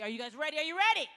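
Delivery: rising from a firm call to a loud, high shout; from a call to a full crowd-hype shout; crowd hype-up building to a shout. Real, not acted. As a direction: pump up the room until you're yelling. Hyping up the crowd.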